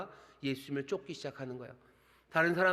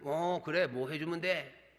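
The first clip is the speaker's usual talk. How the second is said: cocky; slower than usual. Shown as a demonstration. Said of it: "뻑이나요?".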